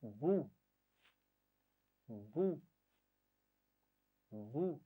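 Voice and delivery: بو said with a lip stop and a short round u; بو said calmly, not long, no jolt; model syllable. Shown as a demonstration. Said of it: "پڑھیے".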